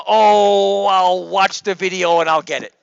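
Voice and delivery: mock student brush-off. Teacher mocks a student's unconvincing promise, breezy. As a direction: airily shrug it off like a student. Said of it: "That was a".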